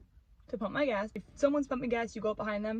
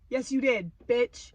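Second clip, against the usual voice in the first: snide insult; 3 dB louder, slower than usual. Retold or imitated. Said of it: "She said it just like that".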